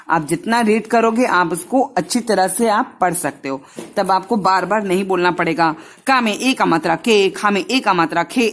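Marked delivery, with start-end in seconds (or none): 6.1-8.5 slow spelled-out reading. Shown as a demonstration. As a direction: spell it out step by step, का में ए का मात्रा. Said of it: "ऐसे नहीं पढ़ना पड़ेगा".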